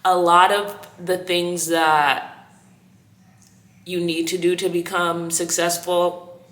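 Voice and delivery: slight lisp from whitening strips. Real, not acted. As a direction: talk with whitening strips on teeth. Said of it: "You hear this lisp? I got teeth whitening strips in".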